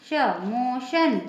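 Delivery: "श, मोशन": the sh alone, then slowly in the word; "मोशन" drawn out with a clear sh; TIO as "sh". Shown as a demonstration. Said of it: "इसका pronunciation होगा".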